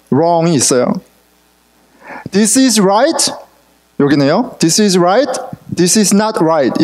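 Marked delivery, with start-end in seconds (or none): 2.3-3.3 slow, deliberate. Shown as a demonstration. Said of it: "이렇게 딱 있어요". 5.8-6.8 each word drawn out slowly; slow and deliberate. Shown as a demonstration. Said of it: "이렇게 딱 있어요".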